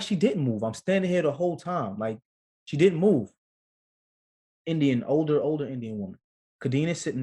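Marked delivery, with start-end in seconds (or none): 0.0-3.3 insistent, rising in pitch; retold protest. Husband defending wife to anesthesiologist, insistent.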